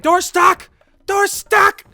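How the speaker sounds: high, loud yelp; mock-panicked shout. Player stuck getting an item from the bag, high mock-panicked shouting.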